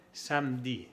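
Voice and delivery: "samedi" in two syllables, "sam-di"; silent middle E. Shown as a demonstration. Teacher modelling silent E, "samedi" as "sam-di". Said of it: "una E que no se pronuncia".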